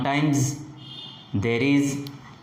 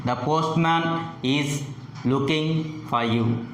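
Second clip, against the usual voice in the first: statement falling at the end on "for you"; measured phrases, pitch dropping onto "you". Shown as a demonstration. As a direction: let "looking for you" sink to a close. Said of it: "the pitch falls at the end".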